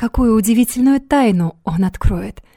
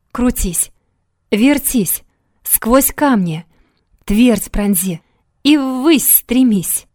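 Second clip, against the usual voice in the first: barked staccato poem; 3 semitones higher, much slower than usual. Acted. Oracle's verse read out.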